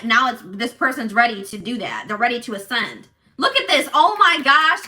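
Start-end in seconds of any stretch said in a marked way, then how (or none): 3.4-4.9 real excitement, higher and louder; excited. Real, not acted. Tarot reader to viewers, excited over a card. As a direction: burst out at the card you just drew.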